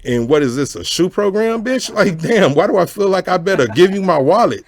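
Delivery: high, loud alarmed retort; hammed-up panic; mock scared squawk. Answering the Compton friend, in a high mock alarmed squawk. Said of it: "I'm like".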